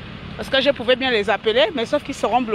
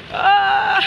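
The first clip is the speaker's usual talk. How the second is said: startled cry; 8 semitones higher, 4 dB louder than usual. Real, not acted. Startled while wading.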